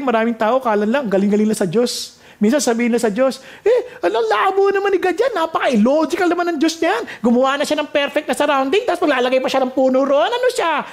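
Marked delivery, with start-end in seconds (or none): 3.6-10.8 high, scoffing whine at God; mock outrage at God's logic; mocking complaint to God. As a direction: mimic a know-it-all grumbling at God. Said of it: "Parang ganun pa sinasabi natin sa Diyos".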